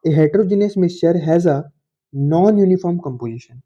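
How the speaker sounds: reading a definition out word by word, slowly; slow dictation. Shown as a demonstration. Teacher dictating a definition to the class, very slowly. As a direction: dictate it slowly so students can copy.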